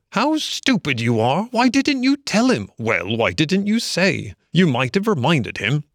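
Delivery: high, squabbling rabbit voices; bickering rabbits blame each other; grumbling rabbits. A narrator's reading. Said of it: "started grumbling at each other".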